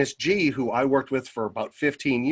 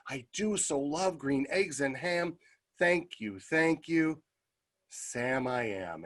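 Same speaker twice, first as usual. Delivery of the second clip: tender gratitude; 2 semitones higher, 6 dB quieter, slower than usual. Retold or imitated. Story character's softened, grateful ending.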